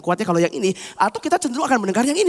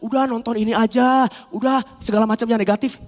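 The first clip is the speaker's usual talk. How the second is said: coaxing friends; 2 semitones lower than usual. Retold or imitated. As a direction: imitate friends egging someone on. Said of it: "teman-teman bilang".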